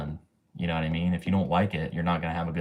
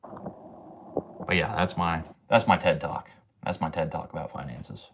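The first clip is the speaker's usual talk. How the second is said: winded after a long rant; breathless, catching air; out of breath; 3 semitones lower, 4 dB quieter, slower than usual. Real, not acted. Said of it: "I'm out of breath".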